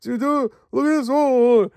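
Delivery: high, airy mock wonder at the rocks; hammed-up high gasping awe; mock Indy gawking. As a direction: lampoon a hero gaping at scenery. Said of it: "he was like".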